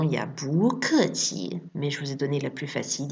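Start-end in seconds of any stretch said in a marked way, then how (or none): 0.3-1.6 "bu ke qi" said slowly, one syllable at a time; slow demo. Shown as a demonstration. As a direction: spell out "bu ke qi" slowly. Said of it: "il y a une autre façon".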